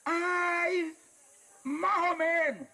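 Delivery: high, slow, dragging whine; Ay stretched into a weary half-answer; listless sigh. Retold or imitated. Lukewarm believer's sigh. (tono quejumbroso y arrastrado)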